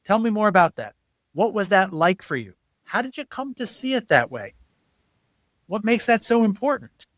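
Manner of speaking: curious open questions. Shown as a demonstration. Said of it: "it works in almost any situation".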